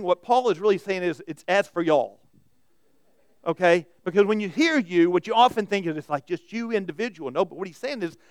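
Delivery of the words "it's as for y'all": mild Southern accent, folksy; light Southern twang. Shown as a demonstration. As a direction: read it like a Southern preacher. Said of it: "a little southern twang".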